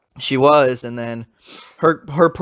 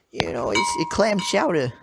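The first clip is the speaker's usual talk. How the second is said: put-on Boston accent; 4 semitones higher than usual. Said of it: "her little old lady Boston accent".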